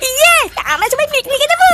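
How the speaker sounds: high, happy whoop; excited cheer. Acted. Friend cheers to the group as they finally leave, excited.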